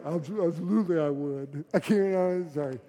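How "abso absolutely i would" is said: a hint of a deep, firm pastor; slightly altered, firm pastor's answer; lightly voiced firm pastor answering the intern. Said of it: "It was really deep".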